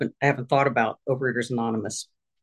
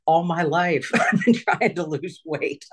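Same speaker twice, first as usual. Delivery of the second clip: slower, higher, tearful and breaking; half-laughing through remembered tears; retold tearful cry; 4 semitones higher, slower than usual. Retelling driving home from the doctor, tearful and breaking. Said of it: "driving home and crying, like".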